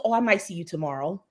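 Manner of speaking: "might" leaned on in a retold reply; stress on might. Daughter tells mother she might visit tomorrow, stress on "might". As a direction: put the weight on "might". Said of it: "Emphasis on the might".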